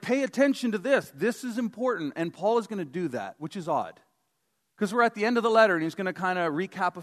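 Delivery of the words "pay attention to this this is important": high, punched mock emphasis; lightly raised all-caps voice, pitched up. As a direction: say it like it's typed in capitals. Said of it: "all caps is to be like".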